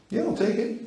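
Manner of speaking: high, eager little voice for the hand; the hand talking. Pretend. Teacher voicing the grabbing hand in a high voice. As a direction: voice the hand as if it grabs on its own. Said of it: "The hand goes".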